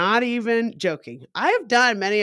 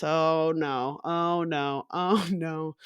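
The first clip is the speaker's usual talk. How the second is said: lower, softly repeated dismay; sinking dread; 3 semitones lower, 4 dB quieter, much slower than usual. Retold or imitated. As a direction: let the dread sink in, retold. Dread on seeing cop cars.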